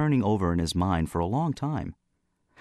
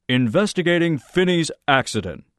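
loud, high, emphatic protest; indignant outburst; 8 semitones higher, 5 dB louder than usual. Acted. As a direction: voice raised high and hard on each word. Heated confrontation over the accident.

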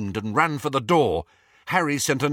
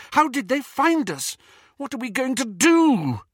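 higher, rushed and tense; a little hysterical; 14 semitones higher, 4 dB louder than usual. A narrator's reading. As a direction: cut him off in rising panic. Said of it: "said Hermione a little hysterically".

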